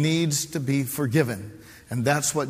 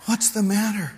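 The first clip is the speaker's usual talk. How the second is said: wife asking; 8 semitones higher than usual. Retold or imitated. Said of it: "she says".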